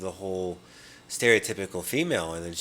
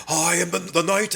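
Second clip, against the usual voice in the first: high, louder mock queen voice; imitating Galadriel; 8 semitones higher, 4 dB louder than usual. Imitating Galadriel tempted by the ring, high and louder. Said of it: "she's like".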